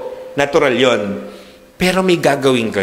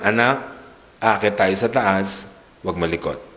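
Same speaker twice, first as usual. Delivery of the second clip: gentle hushed instruction; 7 semitones lower, 5 dB quieter than usual. Retold or imitated. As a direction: coax the child quietly to sit still. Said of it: "tinuturuan natin silang". (mahinahong bulong sa anak)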